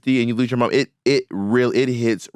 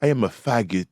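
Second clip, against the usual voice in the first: imitated drag queen's Japanese accent; mock Japanese-accented catchphrase; thick Japanese accent. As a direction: mimic her Japanese accent word by word. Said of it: "she had a, a very Japanese accent".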